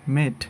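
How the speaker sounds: মেট with a short pure e; common mispronunciation. Shown as a demonstration. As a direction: say মেট as "met", no glide. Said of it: "এটাকে আমরা বলি".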